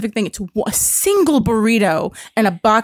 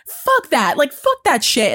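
higher, punchy mock defiance; mock hyped-up anger; 4 semitones higher, slower than usual. Customer hypes herself up for confrontation, mock defiant. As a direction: act out psyching yourself up. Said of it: "hype myself up".

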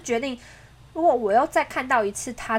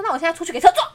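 mildly raised, mock-angry threat; retold angry threat; 3 semitones higher, 3 dB louder, much faster than usual. Girlfriend imitates her angry boyfriend, retold threat. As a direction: act out his threat, only slightly heated. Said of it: "他也是很生气".

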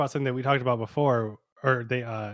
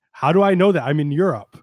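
mock studio executive; 4 dB louder than usual. Mocking studio note.

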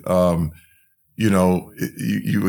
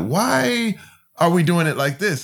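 put-on questioning kid; 8 semitones higher than usual. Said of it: "because I'm like".

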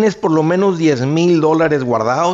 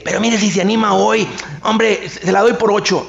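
higher-pitched pleading sales pitch; desperate seller; 4 semitones higher than usual. Acted. Seller to hesitant buyer, desperately haggling. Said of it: "Se le vuelve lo desesperado".

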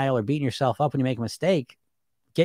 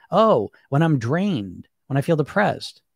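slow reflection; slower than usual. Shown as a demonstration. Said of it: "Let's get more detailed".

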